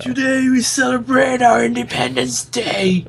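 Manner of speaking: rousing movie-president shout, pitched high; big cinematic rallying cry; movie president speech. Retold or imitated. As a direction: declaim it like the president in the film.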